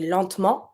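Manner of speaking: LENTEMENT in two syllables, "lent-ment"; skipped E. Shown as a demonstration. Teacher showing what people tend to say, "lentement" without the E. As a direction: drop the middle E of "lentement". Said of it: "people tend to skip the E".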